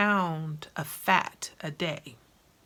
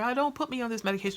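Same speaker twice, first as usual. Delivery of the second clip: fast, higher imitation of a begging patient; mock pleading sister; 5 semitones higher, much faster than usual. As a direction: rush it out, begging the doctor. Sister pleading with her doctor.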